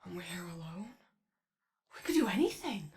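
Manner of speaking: a breathy stage whisper, sharing a secret; playful whisper. Acted. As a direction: whisper it like you're plotting mischief. Conspiratorial, alone with Starlight.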